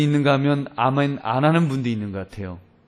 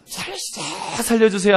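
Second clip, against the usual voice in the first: stretched stage yell, held back at first; mock cry for help; 6 semitones higher than usual. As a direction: act out repeated calls for rescue. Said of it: "소리를 질렀습니다".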